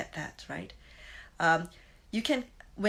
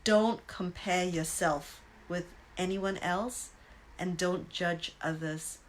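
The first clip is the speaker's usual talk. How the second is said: relayed advice; slower than usual. Retold or imitated. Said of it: "they said".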